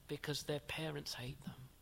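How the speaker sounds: dropped to a whisper. Real, not acted. Preacher picturing a rejected believer for the congregation, whispered. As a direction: hush it as if sharing something painful.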